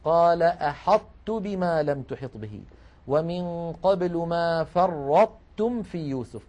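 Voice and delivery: أحطت and فرطتم recited slowly, the ta held heavy with itbaq; slow recitation of the example. Shown as a demonstration. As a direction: recite slowly keeping the emphatic ta. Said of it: "ذكرنا مثال".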